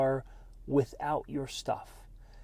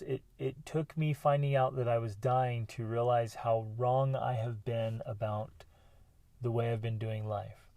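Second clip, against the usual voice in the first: understated remorse; 2 semitones lower than usual. Retold or imitated. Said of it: "she just breaks down, just sobbing, crying, just deep, deep, deep remorse".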